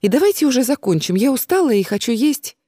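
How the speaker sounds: fast, losing patience; impatient. Acted. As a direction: rush it, fed up and tired. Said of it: "теряя терпение".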